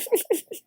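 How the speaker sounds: high, soft burst of giggles. Real, not acted. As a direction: crack up quietly at your own slip. Cracks up over the name.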